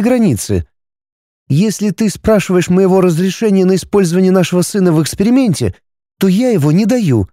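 a wife refusing her husband, steady; wife Arani, firm. A narrator's reading. Wife Arani voiced higher.

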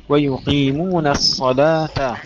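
الصلاة slow with the final ت opened with a vowel. Shown as a demonstration. Teacher modelling the verse, slow. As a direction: open the ت of الصلاة. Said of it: "افتحي التاء".

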